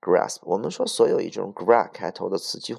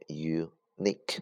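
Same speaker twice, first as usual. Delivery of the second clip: unique with the stress on the second syllable, "nique"; stress on the end; 5 dB quieter, much slower than usual. Shown as a demonstration. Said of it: "它的发音重音在后边".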